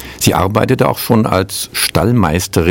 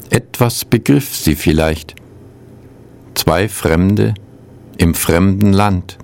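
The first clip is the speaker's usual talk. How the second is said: measured poem recital with long pauses; poetry reading. Acted. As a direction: read each line as verse, letting it settle. Reads two translated poems.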